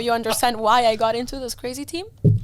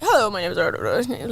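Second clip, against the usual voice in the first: put-on slow greeting in a strong English accent; 3 semitones lower, slower than usual. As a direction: imitate a caller's odd, strong English. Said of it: "weird, strong English".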